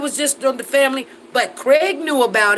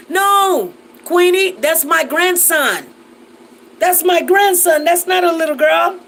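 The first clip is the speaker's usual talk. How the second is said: indignant correction; 3 semitones higher, 3 dB louder than usual. Real, not acted. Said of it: "a little girl sitting".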